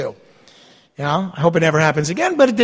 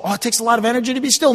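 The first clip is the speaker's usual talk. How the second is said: fast, high mocking objection; 6 semitones higher, much faster than usual. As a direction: rattle off the imagined excuse. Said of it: "mocking a listener's objection".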